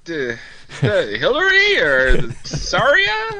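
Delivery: put-on slow, high rambling old man; doddering old reporter. Imitating Sid at White House.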